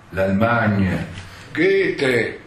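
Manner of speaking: loud, lofty exclamation of the poet's name; theatrical actor voice. Retold or imitated. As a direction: proclaim the name like a revelation. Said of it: "con voce impostata da attore". (esclamazione teatrale solenne)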